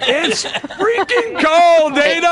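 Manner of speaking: high, loud, drawn-out holler; emphatic shout. Real, not acted. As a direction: stretch it out and holler the punchline. Shouted punchline to "How cold is it?.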